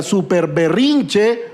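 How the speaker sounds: slow, stretched super berrinche; drawn-out emphasis. Shown as a demonstration. Preacher naming Jonás's tantrum, drawn out slowly. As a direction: stretch out each syllable of super berrinche for effect. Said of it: "le he llamado el hiper, ultra, metra, mega".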